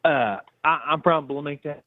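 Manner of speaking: garbled cell phone dropout; buffering stutter. Real, not acted. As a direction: signal cutting out mid-phrase. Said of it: "ain't nothing going right right now".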